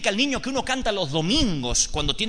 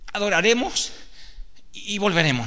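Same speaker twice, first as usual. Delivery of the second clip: put-on higher, earnest child's voice quoting "adoraremos y volveremos"; boy reminding father; 3 semitones higher than usual. The son reminds his father of his promise, higher and earnest. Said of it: "Isaac dice".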